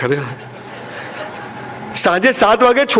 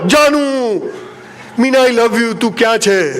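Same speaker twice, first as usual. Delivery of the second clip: lovesick madman calling; 2 semitones higher than usual. Retold or imitated. Second madman calling for Meena.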